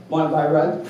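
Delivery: lightly imitated dry deadpan, a bit low. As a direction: toss off the rug offer bone-dry, no smile. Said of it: "Harry's just very deadpan goes".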